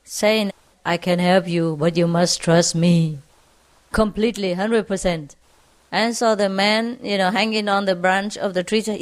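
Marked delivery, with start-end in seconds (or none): 0.9-5.4 low, steady voice of God; lightly voiced voice from the sky. God to hanging man, lightly voiced low voice. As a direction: speak lower, as if from the heavens, lightly acted. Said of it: "there was a voice from the sky".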